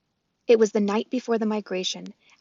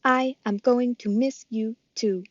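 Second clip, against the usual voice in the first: robot voice; 2 semitones higher, slower than usual. Acted. Roz the robot speaks.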